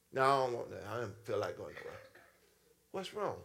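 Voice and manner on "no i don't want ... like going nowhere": much lower and softer mumbled pout; mock moody partner refusing to go out; sulky refusal. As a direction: sulk and turn the invitation down. Sulking when image is gone.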